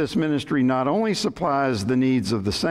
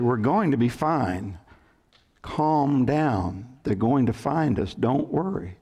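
even, unhurried reassurance; acted calm; slower than usual. Relaxed castaway reassuring his panicked companion, very calm. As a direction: settle him down, calmly and evenly. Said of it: "the other man very calmly said".

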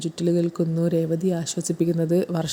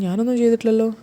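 mock innocent denial, a touch higher; lightly voiced pretend innocence; feigning ignorance; 4 semitones higher, 3 dB louder than usual. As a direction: play dumb as if you know nothing. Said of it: "അറിയാത്ത മട്ടിൽ".

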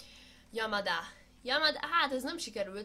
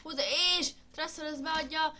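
light play-by-play commentary; sports commentary; 3 semitones higher than usual. Pretend. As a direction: call the match like a TV commentator. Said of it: "én vagyok a kommentátor".

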